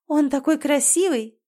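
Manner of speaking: dreamy sigh. A narrator's reading. Anastasia to her sister about the prince, dreamy sigh. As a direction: swoon over the handsome prince. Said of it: "вздохнула Анастасия".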